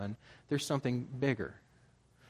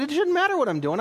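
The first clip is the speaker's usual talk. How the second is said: much higher, louder indignant snap; mock indignant retort; 12 semitones higher, 8 dB louder than usual. Husband snapping at his wife, indignant. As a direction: protest like a man offended at being asked. Retold argument with wife, voice climbs.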